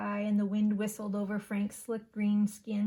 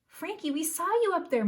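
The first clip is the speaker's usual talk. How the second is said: higher, louder proud delight; beaming; 9 semitones higher, 5 dB louder than usual. A narrator's reading. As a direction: beam at your son. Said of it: "Mom beamed".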